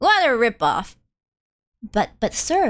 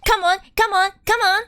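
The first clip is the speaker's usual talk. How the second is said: excited cheering; 6 semitones higher than usual. Acted. Cheering on a lottery draw.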